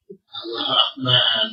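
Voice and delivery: low, slow, hushed exclamation; a sighing, wondering "Allah Akbar"; mock awe. (takjub pura-pura, pelan dan rendah)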